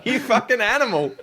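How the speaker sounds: high, laughing mock outrage; mock-scold her through a laugh; laughing mock insult. Real, not acted. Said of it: "I'm like".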